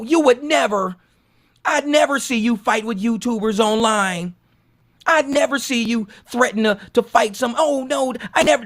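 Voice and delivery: high, slow, swooning fanboy voice; gushing fan comments. Retold or imitated. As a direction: read the comments like an adoring fan. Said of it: "And I'm just sitting there reading these comments like".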